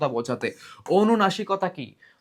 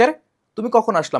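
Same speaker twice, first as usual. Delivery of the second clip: higher, louder, acting astonished; surprised; 6 semitones higher, 4 dB louder than usual. Shown as a demonstration. Teacher acting out a surprised greeting for students, astonished. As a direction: exclaim it like you just saw someone appear. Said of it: "মানে অবাক হইছো যে".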